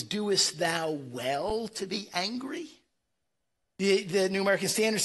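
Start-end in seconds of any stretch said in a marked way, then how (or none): 0.0-2.7 King James reading. Retold or imitated. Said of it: "old King James says".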